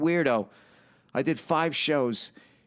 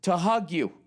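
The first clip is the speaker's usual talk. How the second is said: higher, gushing fan confession; mock starstruck fan; 10 semitones higher than usual. Comedian imitating a fan at a show, lightly gushing. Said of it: "He goes".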